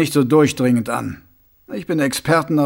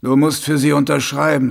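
steif. Acted. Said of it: "sagte Mumm steif".

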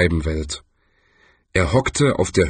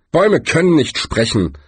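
nervous interruption; 6 semitones higher than usual. Acted. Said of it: "unterbrach ihn Rincewind nervös".

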